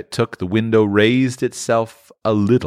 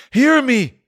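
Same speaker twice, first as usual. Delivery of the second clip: high, loud ghostly cry; the ghost demands Scrooge's attention, crying out high; 5 dB louder than usual. Acted. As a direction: call out to him with desperate urgency. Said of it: "cried the ghost".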